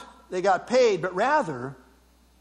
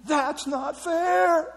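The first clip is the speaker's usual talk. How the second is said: mock howl; 3 semitones higher, much slower than usual. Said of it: "you can almost hear the howl".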